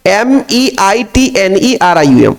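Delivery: letter by letter, slow and deliberate; spelling out slowly. Shown as a demonstration. Teacher spells the element name letter by letter for students, slowly. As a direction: spell the name out for the class one letter at a time. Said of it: "Google में करके बता देता हूं".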